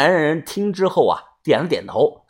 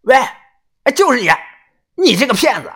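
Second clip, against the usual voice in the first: high, loud accusing yell; a mild stage roar of accusation; angry shout; 9 semitones higher, 4 dB louder, faster than usual. Acted. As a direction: call out the cheat across the crowd. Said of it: "一声暴喝".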